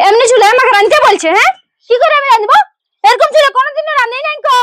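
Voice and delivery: loud, exasperated bride complaining; indignant bride protesting loudly; angry complaint. Acted. Bride complains about the stove.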